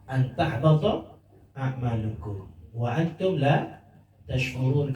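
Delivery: slow chanted Arabic phrase; drawn-out recitation of the warning; verse recitation. Acted. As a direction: intone the verse slowly.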